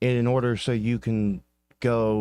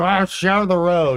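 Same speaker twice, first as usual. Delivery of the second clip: put-on very slow, cranky, angry, raised, drawn-out yell; 9 semitones higher, 7 dB louder than usual. Imitating the cyclists on the road: imitating an angry cyclist. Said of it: "They're so angry".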